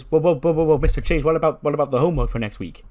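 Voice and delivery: loud, fast eager interruption; an eager student blurting out; mock excited protest. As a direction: cut in eagerly, half shouting. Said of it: "And Bodhi goes".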